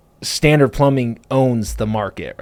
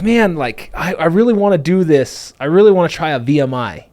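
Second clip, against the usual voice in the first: retold eagerness, pitched higher; eager pitch; 5 semitones higher than usual. Telling the supplier he wants to try a V M I, eager. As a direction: recall really wanting it, voice lifted.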